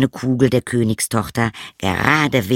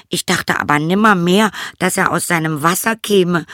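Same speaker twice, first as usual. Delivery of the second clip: high, plaintive princess voice; princess confessing; 8 semitones higher than usual. A narrator's reading. Princess confesses to her father.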